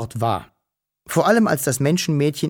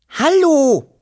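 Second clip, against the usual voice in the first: loud, high-pitched holler; high call; 7 dB louder than usual. A narrator's reading. Wischel calling to the girl from the bushes, high call. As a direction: call out high, holding the last vowel. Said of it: "rief Wischel noch einmal".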